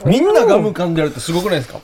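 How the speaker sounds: talking while chewing gum; words round a piece of gum. Real, not acted.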